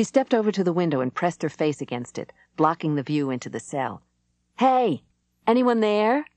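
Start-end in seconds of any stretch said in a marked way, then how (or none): 4.6-6.3 calling out loudly; shouting. A narrator's reading. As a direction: shout through the window. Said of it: "as Karoli kept up the noise".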